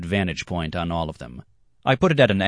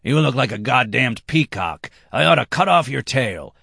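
higher, louder taunt; mocking threat; 7 semitones higher, 4 dB louder than usual. Red-haired man taunts his rival, higher and louder. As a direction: jeer at the peacock.

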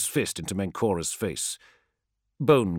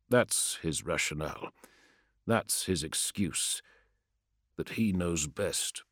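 quiet bitterness; 5 dB quieter than usual. Acted. Promus's bitter quiet verdict.

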